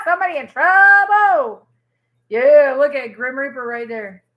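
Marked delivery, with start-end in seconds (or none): 0.0-1.7 laughing tease. Real, not acted. Reader gloating over a rival, laughing and louder. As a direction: laugh then say it higher and louder.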